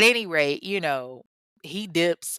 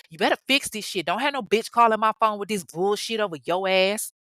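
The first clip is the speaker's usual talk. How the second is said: digging into him. Retold or imitated. Wife confronting her cheating husband about the call, angry scolding. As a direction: play a wife laying into her man. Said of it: "Sheree was digging in his ass".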